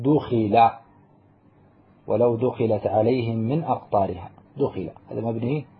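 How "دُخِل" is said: دخل said slowly as du-khi-la with a clear u and i; passive form. Shown as a demonstration. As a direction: stretch out دخل as du-khi-la for the class. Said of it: "تقول".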